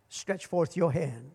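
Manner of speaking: low, soft and slow, a gentle order; softly spoken stretch forth your hand; quiet command. Acted. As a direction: speak the command hushed and unhurried. Jesus commands the withered hand.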